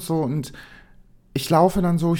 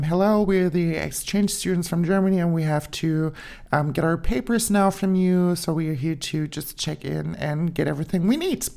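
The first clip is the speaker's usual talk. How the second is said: polite English introduction. Retold or imitated. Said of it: "sagen wir so natürlich".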